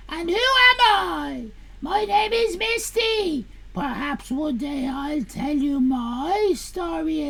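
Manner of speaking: theatrical reading of an editorial; hammed-up comic read. Reading Misty's welcome to chat, theatrical. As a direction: camp up the welcome letter.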